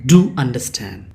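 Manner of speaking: "Do" stressed, falling through "understand"; firm emphasis on "Do" before "understand"; emphatic DO. Shown as a demonstration. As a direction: lean on "Do" to press the request. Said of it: "you are stressing that word understand".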